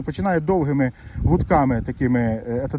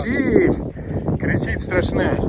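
pitched much higher, mocking; playful higher кричить; teasing insistence; 5 semitones higher, slower than usual. Shown as a demonstration. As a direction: needle him by saying кричить way up high. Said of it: "Не кричав".

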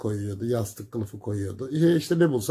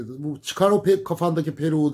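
angry mother; 4 semitones higher than usual. Retold or imitated. Angry mother orders wig off.

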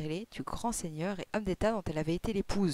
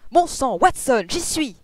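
high, loud burst of sudden realisation; excited cry; 7 semitones higher, 12 dB louder, slower than usual. A narrator's reading. Detective leaping up at breakfast with the answer, crying out. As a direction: cry out as if it just came to you. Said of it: "s'écria-t-il".

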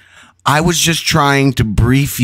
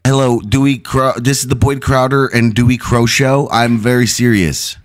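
serious voice. Pretend. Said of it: "This is my serious voice".

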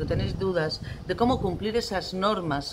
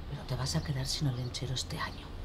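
soft, lower-pitched warning; quiet threat; 5 semitones lower, 9 dB quieter than usual. Acted. Parent warning child of no Olentzero this year, quiet threat. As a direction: drop your voice to deliver the ultimatum.

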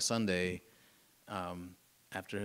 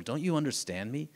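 higher-pitched imploring questions; pleading; 5 semitones higher than usual. Retold or imitated. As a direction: plead to be understood, voice lifting. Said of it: "almost seems like he's pleading with them".

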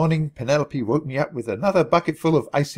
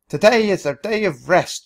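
loud, high drill-sergeant call; shouted announcement; 5 semitones higher, 5 dB louder than usual. A narrator's reading. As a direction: shout it across the camp. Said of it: "shouted Penelope the next morning".

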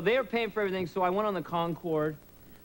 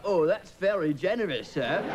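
British driver; slower than usual. Retold or imitated. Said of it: "He's like".

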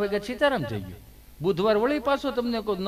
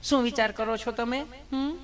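higher, sugary nurse voice; teasing nurse; 4 semitones higher than usual. Retold or imitated. Nurse teasing scared Gabho, higher sugary voice. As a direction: coo at him like a fussing nurse. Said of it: "nurse બેને".

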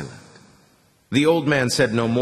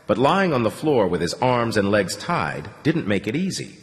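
ordinary delivery, nothing marked

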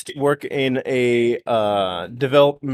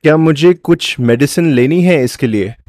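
rushed nervous demo; 7 dB louder, much faster than usual. Real, not acted.

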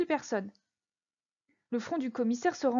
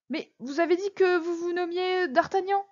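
high-pitched incredulous challenge; indignant surprise; 6 semitones higher than usual. Acted. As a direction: question him in raised disbelief. Commissioner challenges the prisoner's identity.

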